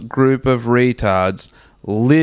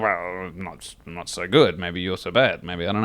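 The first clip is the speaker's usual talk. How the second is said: meek reply; 7 semitones lower, 6 dB quieter than usual. Retold or imitated. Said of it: "And I'd be like".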